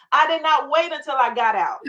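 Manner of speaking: real tears breaking into the line; choked up. Real, not acted. Telling the host of her shelter days, choked up. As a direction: voice catching with emotion. Moved recalling shelter triumph.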